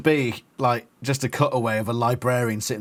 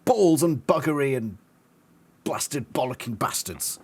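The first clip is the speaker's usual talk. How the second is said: British curse. Acted. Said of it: "your homeland accent".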